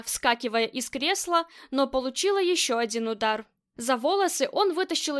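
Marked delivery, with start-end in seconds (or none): none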